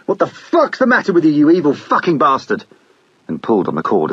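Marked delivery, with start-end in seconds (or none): 0.1-2.6 high, loud swearing at the engine; cursing a stalled outboard, yelled high and loud; furious yell. Acted. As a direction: bellow it at the dead motor in a rage. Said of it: "He yelled".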